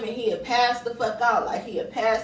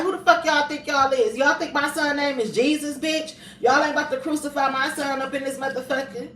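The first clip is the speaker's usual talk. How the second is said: furious confrontation; 4 semitones higher than usual. Retold or imitated. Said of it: "I'm like".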